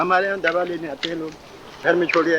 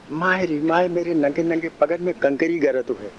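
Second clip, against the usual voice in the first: put-on little girl's plea. Shown as a demonstration. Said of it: "बोलने का ढंग".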